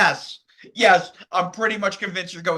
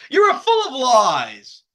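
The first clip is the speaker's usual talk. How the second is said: high, loud, drawn-out accusation; accusatory outburst; 7 semitones higher, 8 dB louder, much slower than usual. Acted. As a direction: hurl the accusation loudly, stretching it out. Reading out her angry accusation.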